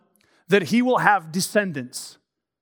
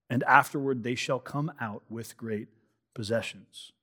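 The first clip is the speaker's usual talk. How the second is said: scripture reading; 3 semitones lower than usual. Acted. Pastor reading Genesis fifteen to the congregation, measured scripture reading.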